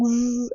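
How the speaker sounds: drawn-out "zzz" buzz; buzzing sound. Shown as a demonstration. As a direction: imitate a buzz with a long ज़. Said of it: "ये वाली ज़ जो sound". (भिनभिनाने की लंबी ज़ आवाज़)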